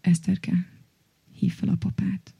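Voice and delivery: lightly imitated grave mother, in short separate phrases; understated funereal tone; sepulchral. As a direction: say it like a solemn mother, with pauses. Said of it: "aki ilyen síri hangon csak annyit mondott".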